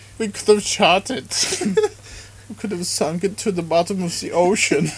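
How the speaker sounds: put-on German accent. Joking around with another speaker, switching into a put-on German accent. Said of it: "I'm just going to go German".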